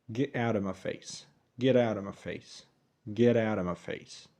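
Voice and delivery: "Get out of" as "geddowda"; slow model line, "out of" losing its v; reduced linking. Shown as a demonstration. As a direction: flap the t's through "Get out of my face". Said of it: "عاوزين نسرعها أكتر".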